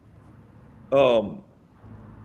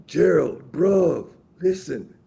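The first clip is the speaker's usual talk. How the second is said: mock London accent, a little louder; terrible British accent; 4 semitones higher, 4 dB louder, slower than usual. Imitating a British friend in a bad British accent. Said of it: "it's my terrible British accent".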